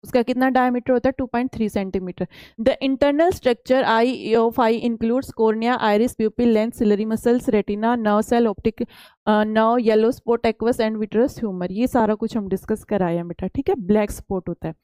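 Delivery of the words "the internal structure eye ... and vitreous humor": slow, deliberate reading of the English slide. Acted. Teacher reads the textbook slide to students, slow and careful. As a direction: read each word out for the class.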